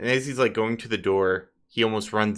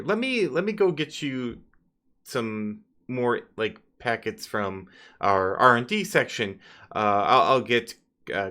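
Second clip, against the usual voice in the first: nervous excuses; 2 semitones higher than usual. Acted. NPC on tilt excusing himself to the party. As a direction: babble excuses and edge toward the door.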